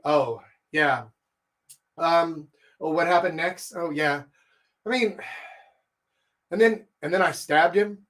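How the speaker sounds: halting, half-hearted listener and talker; low, uninterested tone. Acted. Lecturer imitates an uninterested talker, low and halting. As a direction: hesitate with long gaps, mildly bored. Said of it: "if her voice is low like that, a low tone".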